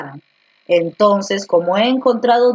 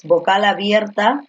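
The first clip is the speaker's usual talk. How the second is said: slow dictation. Shown as a demonstration. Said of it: "la combinación del diptongo es".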